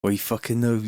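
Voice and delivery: West Country, unemphatic first try; West Country accent. Shown as a demonstration. Streamer testing an accent phrase, casual West Country. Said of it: "West Country a-, accent".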